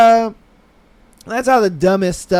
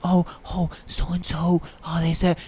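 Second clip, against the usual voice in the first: imitating a hushed gossip; mock confidential undertone; lowered gossip voice; 6 dB quieter than usual. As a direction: drop to a soft, secretive murmur. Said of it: "lower their voice".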